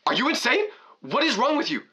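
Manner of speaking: slow, rising mock outrage climbing high; imitating an angry mom on the phone; retold yelling mom. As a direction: play the furious mom, disbelief building to a shriek. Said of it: "she starts yelling".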